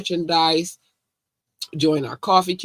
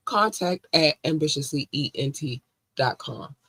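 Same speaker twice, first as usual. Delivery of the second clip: slow and clear; slower than usual. Shown as a demonstration. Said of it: "repeated slowly for listeners".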